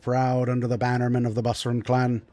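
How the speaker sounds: lightly voiced lord, hearty opening praise; approving dwarf lord. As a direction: praise a young clansman like a proud elder. Game master plays the Lord.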